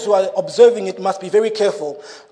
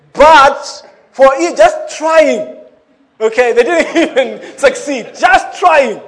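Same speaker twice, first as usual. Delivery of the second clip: laughing mockery; 5 semitones higher, 7 dB louder, slower than usual. Real, not acted. Mocking failed arson.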